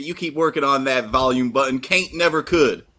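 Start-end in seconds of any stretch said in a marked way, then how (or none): 1.8-2.8 folksy saying. Shown as a demonstration.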